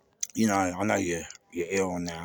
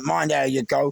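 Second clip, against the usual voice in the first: ordinary talk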